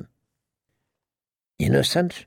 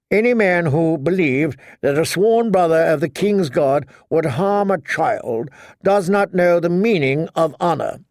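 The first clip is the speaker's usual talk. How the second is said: higher, chattering knight voice; prattling blithely; 4 semitones higher than usual. Acted. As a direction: prattle on without a care. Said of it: "Sir Cleos prattled on blithely".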